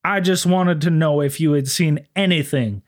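smooth officer voice. Retold or imitated. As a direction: play a humble, courtly lawman. Sisko questioning the witness.

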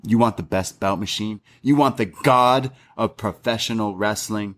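slow build to a breathy "yes"; a wrestler's dramatic acceptance; dramatic answer. Retold or imitated. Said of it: "he says".

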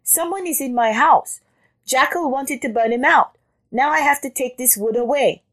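high-pitched rabbit voice; complaining rabbit. A narrator's reading. Rabbit telling Jackal of the intruder, high complaint. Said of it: "cried the rabbit".

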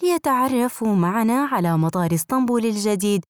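airport announcement. Acted.

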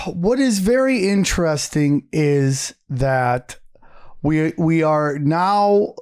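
slowing down, losing the thread; trailing off. Real, not acted. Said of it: "I forgot what I was gonna say".

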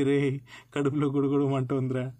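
a hint of a desperate master waking his servant; urgent whisper to servant. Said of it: "అన్నాడు".

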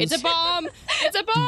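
alarmed yell. Acted. Player yells alarm at glowing pet.

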